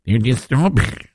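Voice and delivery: abandoned attempt at a Mexican accent; badly faked Mexican accent; mock Mexican accent. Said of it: "work on my south of the border accent".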